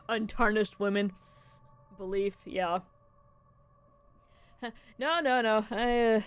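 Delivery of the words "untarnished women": breaking into laughter mid-line; laughing through untarnished. Real, not acted. Laughs while reading the line.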